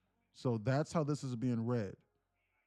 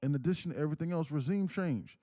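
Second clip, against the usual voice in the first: building from raised to near shouting; choppy reading voice; 6 semitones higher, 5 dB louder than usual. Shown as a demonstration. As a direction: chop each phrase, louder and higher toward the end. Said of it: "reading in this choppy voice".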